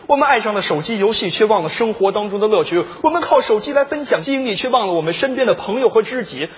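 mock poem recital. Reflecting on phones to his partner, solemn poem recital. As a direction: declaim it as earnest verse.

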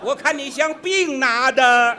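laughing jab. Real, not acted. Mocking partner's garbled word.

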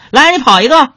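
high, loud mocking dare; mock thug taunt. Street punk dares the narrator to run, high and cocky. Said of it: "那小流氓就说了".

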